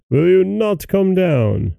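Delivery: high, impatient demand without shouting; restrained cry of an impatient husband. A narrator's reading. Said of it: "cried Bluebeard".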